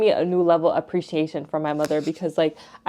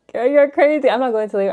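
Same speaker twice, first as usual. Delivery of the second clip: incredulous retort; 6 semitones higher, faster than usual. Retold or imitated. Disbelieving reply to mom.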